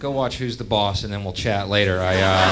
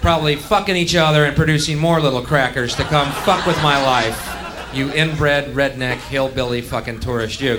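louder, laughing crowd be damned rant; angry rant; 3 semitones higher, 4 dB louder than usual. Pretend. Comic ranting at a tourist audience, angry and loud. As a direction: tear into them with raised voice.

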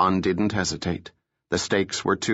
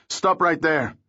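guard shouting a halt, high and urgent; shouted; 8 semitones higher than usual. A narrator's reading. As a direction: bark the order at intruders. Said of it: "a guard shouted".

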